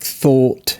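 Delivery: "thought" with tighter, rounder British AW; very rounded, closed AW in "thought". Shown as a demonstration. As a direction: attempt a British vowel in "thought". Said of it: "whatever you guys say".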